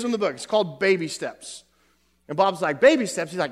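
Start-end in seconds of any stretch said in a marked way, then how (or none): 2.8-3.3 louder, puzzled repeat of the title; puzzled question. Retold or imitated. Bob asking the doctor about the book, puzzled. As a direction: echo it back in disbelief.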